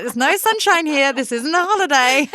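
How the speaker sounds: mock exasperation. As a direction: throw it back at them in mock disbelief. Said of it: "I'm like".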